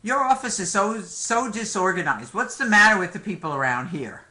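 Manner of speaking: mildly irritated complaint, pitch rising on the first words; a touch of indignant patient; angry patient. Acted. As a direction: act out a fed-up patient griping at the doctor. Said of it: "gets very angry at you".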